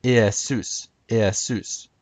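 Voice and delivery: Iesus said ee-eh-SOOS; classical Greek pronunciation. Shown as a demonstration. Teacher shows classical Greek, Iesus as ee-eh-SOOS. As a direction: say Iesus with an open eh before stressed soos. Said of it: "Jesus would have been pronounced".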